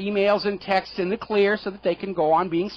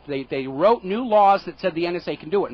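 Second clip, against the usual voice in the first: ordinary talk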